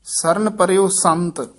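short break after ਸੰਤ; brief pause. Shown as a demonstration. Teacher showing a short pause, breaking off after ਸੰਤ. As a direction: close ਸੰਤ off from what follows. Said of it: "ਇੱਥੇ ਠਮਕ ਲਾ ਦੇਣੀ ਹੈ".

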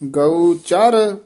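slow "ਗਊ ਚਰ" with weight on ਚਰ; heavy pronunciation. Shown as a demonstration. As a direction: lean heavily on "ਚਰ". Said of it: "ਇਹ ਭਾਰਾ ਉਚਾਰਨ ਕਰਨਾ ਹੈ".

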